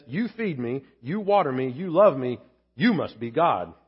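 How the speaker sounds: a hint of a grateful loyal dog; lightly voiced humble dog; devoted dog voice. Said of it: "A dog says".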